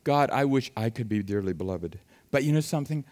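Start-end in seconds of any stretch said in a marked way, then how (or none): 0.0-2.0 wistful longing. Retold or imitated. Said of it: "I thought".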